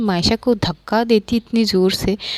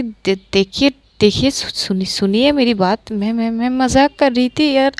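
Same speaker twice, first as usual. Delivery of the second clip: stumbling, mildly panicked excuse; nervous stammering. Acted. Maisha backpedals to angry Pankhuri after teasing her, nervous stammer. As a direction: trip over the first words while pleading.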